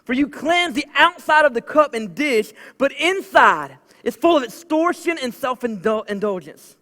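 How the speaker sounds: a hint of Jesus rebuking the Pharisees, firm and slow at the end; preacher voicing Jesus rebuking the Pharisees, firm. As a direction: proclaim it as a stern rebuke. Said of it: "He says".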